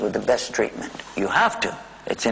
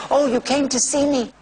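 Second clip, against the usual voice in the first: put-on higher, gentle old man voice; old father pleased to see his son; elderly father's voice; 11 semitones higher than usual. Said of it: "he would say".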